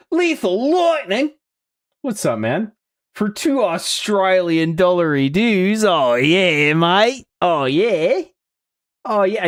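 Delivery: loud, over-the-top, fake stereotypical Australian accent. Addressing Lethal, ridiculous stereotypical Australian accent. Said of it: "my ridiculous stereotypical Australian accent".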